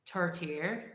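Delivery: Tourtière said as toor-tee-AIR in a light Canadian French accent; a mild try at Canadian French on Tourtière; lightly Québécois Tourtière. Shown as a demonstration. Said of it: "Say it in a Canadian French accent".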